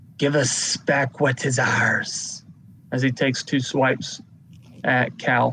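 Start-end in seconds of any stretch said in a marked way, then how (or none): 0.2-2.4 hissing, hissy, snake-like creature voice. Voicing an attacker raising his sword at Cal: hissy, snaky-like voice. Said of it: "kind of that hissy, snaky-like voice".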